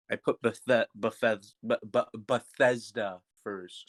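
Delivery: stumbling over words while chewing gum; chewing while talking. Real, not acted. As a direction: talk around a piece of gum. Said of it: "Sorry, I'm chewing on gum".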